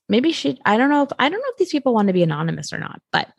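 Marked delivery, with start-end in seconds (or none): none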